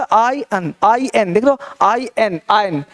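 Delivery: आयन sounded out as EYE-un, no R; model pronunciation. Shown as a demonstration. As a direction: repeat आयन in short takes, R silent. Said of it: "देख लो क्या बोला".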